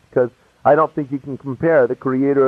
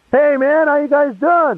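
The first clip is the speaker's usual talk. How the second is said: high-pitched, breezy acted hello; casual greeting; 10 semitones higher than usual. Walking in on old buddies, a high casual hello.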